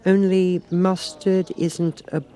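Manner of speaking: high, slow objection; Alice. A narrator's reading. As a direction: point it out. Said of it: "Alice remarked".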